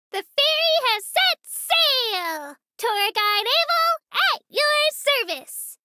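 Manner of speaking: tour guide's grand departure call, drawn out; announcer. Acted. Tour guide to ferry passengers at departure, slow proud announcement. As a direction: announce it slowly to all aboard.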